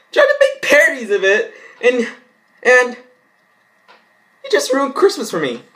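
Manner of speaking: high, loud exasperated rant through laughter; freaking out. Real, not acted. Vlogger ranting that Tristan ruined Christmas, shrill mock outrage.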